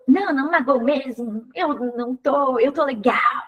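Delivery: curt, defensive denial; mildly clipped, brusque reassurance; harsh tone. Shown as a demonstration. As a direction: snap the words out as if hurt but hiding it. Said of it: "com tom ríspido".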